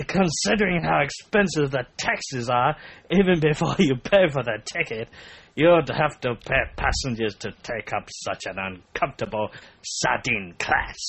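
faltering mock French, fading in strength; half-hearted comic French accent; rubbish French accent. Finishing the French woman's comment, fading bad French accent. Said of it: "gonna stop there 'cause that was rubbish".

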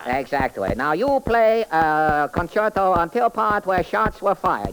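sing-song comic detective character. Acted. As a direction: play the bumbling detective, chirpy. Detective reconstructs crime.

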